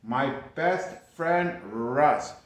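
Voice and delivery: walk through it as an example; model answer. Shown as a demonstration. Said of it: "Or you could say".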